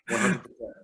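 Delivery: really mean it this time; one hundred percent, with conviction; emphatic agreement. Real, not acted.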